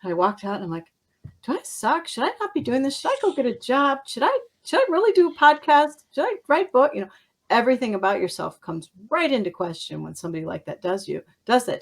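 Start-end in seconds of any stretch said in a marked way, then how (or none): 1.4-6.9 questions pitched high and worried; a hint of anxious panic; anxious self-doubt.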